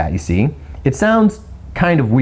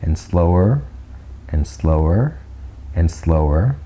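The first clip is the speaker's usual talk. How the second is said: slowing down; 5 semitones lower, slower than usual. Shown as a demonstration. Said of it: "you can kind of go".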